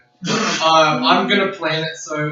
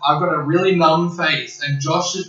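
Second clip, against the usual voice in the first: really wasted. Real, not acted. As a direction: drag the words like you're wasted. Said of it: "I'm really wasted right now".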